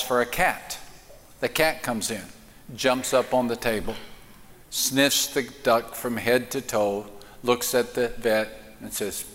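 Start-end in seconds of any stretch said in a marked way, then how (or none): none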